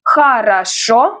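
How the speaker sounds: slow Хорошо, final о stressed and rising; stress on last syllable. Shown as a demonstration. Teacher explains Хорошо stress, slow final-syllable emphasis. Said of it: "the stress is on the last syllable".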